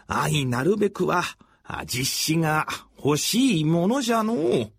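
a weary aging samurai lord, thinking aloud; creaky wise old man. Acted. Old lord Masashige's father speaks.

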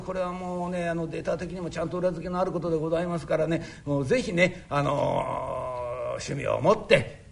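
ordinary talk, nothing marked

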